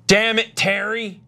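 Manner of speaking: yelling. Retold or imitated. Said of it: "would just go".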